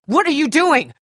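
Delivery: high, loud alarmed cry; alarmed shout. Acted. Survivor yelling at a frozen companion, alarmed shout. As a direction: yell at someone frozen in panic. Panic during zombie attack.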